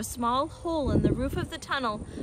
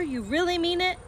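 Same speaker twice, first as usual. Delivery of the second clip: much higher, rising question; amazed cry; 8 semitones higher than usual. A narrator's reading. Badger questioning Fox's invitation, amazed. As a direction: ask again in hopeful disbelief. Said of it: "cried Badger".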